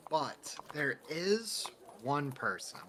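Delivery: whispered and slow; whispered confiding. Acted. Barry whispering a lead to the adventurer. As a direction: lean in and breathe it as a secret.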